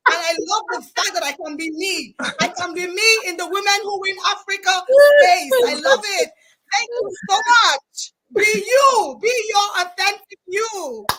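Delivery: loud, high, tearful excited shouts; real fire. Real, not acted. Host overwhelmed with joy thanking the audience, tearful shouts. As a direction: let the joy burst out, laughing and near tears. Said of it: "the fire will come out because that's who I am".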